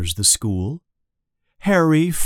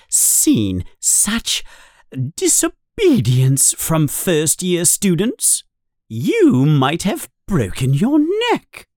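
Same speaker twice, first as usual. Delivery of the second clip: stern, raised scolding voice, pitched up; angry teacher; 6 semitones higher, 3 dB louder than usual. Acted. Strict teacher scolding a rule-breaking first-year, angry. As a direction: scold the first-years hard. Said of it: "Professor McGonagall is very angry".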